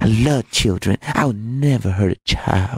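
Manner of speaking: ridiculous put-on fake childlike voice. Imitate the man being discussed talking about children, in a ridiculous put-on childlike voice. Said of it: "he had that ridiculous put on childlike voice".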